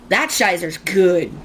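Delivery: slow, playful mock-German "Scheiser's". Shown as a demonstration. Vlogger joking to viewers, slow mock-German "Scheiser's". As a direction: drop in a jokey German word "Scheiser's", slowly. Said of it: "I did just speak a little German".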